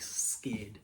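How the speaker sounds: very slow, whispered; scared. Real, not acted. Telling how frightened he was, a slow whisper. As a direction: draw it out in a hushed whisper. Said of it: "I was, like".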